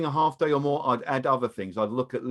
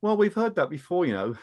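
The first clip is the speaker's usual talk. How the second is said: higher-pitched, joking reminder with a laugh after; 4 semitones higher than usual. Shown as a demonstration. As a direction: tease it lightly, pitched up. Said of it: "another joking manner".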